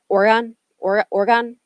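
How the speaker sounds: "Oregon" ending in "gone"; pronunciation trial. Shown as a demonstration. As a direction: try "Oregon" as "or-gone", feeling it out. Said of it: "Maybe that's how you say it".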